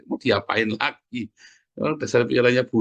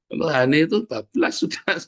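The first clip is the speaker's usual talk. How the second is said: amused laughing; 2 semitones higher than usual. Real, not acted. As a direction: break into laughter mid-sentence. Preacher laughs at his own remark.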